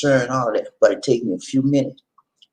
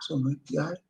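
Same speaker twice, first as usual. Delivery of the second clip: scoping look greeting; 2 semitones higher, 11 dB quieter, faster than usual. Shown as a demonstration. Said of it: "I look at you like this".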